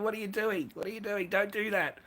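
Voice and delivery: high, mocking imitation of a flustered woman; mock girlfriend freaking out. Retelling his partner's reaction, a high mock protest. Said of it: "She used to freak, absolutely freak out".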